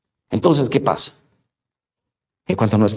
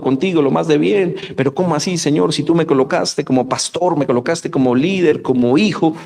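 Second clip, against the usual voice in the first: indignant protest; 4 semitones higher than usual. Pretend. Believer protesting to God.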